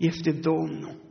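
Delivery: soft, low-voiced revelation; hushed awe. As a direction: breathe it out in quiet wonder. John realizes it is the Lord.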